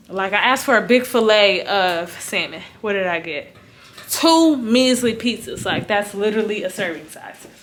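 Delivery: talking around retainers in mouth; slightly lisping with retainers. Real, not acted. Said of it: "I'm talking funny because I got my retainers in".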